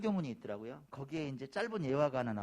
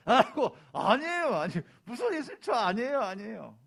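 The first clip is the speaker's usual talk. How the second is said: high, loud acted protest; startled, hurried disclaiming; flustered denial; 7 semitones higher, 8 dB louder than usual. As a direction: wave off the idea in embarrassed alarm. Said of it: "이 말을 듣고 당황했어요".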